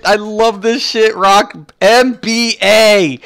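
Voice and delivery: high, excited hype with punched words; thrilled gushing. Real, not acted. Streamer praising his viewers' idea, thrilled and high. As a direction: gush like a delighted fan.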